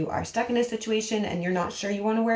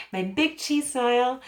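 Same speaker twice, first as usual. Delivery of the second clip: normal talking voice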